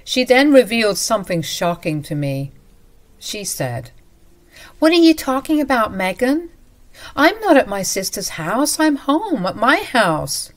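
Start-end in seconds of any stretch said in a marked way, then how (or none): 4.8-10.5 higher and quick, puzzled; confused mother-in-law. Acted. Mother-in-law surprised on the phone, higher and puzzled. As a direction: sound genuinely baffled.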